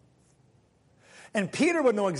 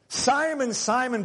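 calling out; 6 semitones higher, slower than usual. Shown as a demonstration. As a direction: call the name like you mean it. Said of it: "Those are some powerful words".

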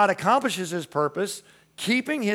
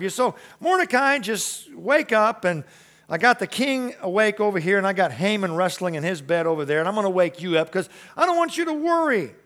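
preacher voicing God comforting Mordecai; God speaking; 4 semitones higher than usual. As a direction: play God gently promising to explain everything.

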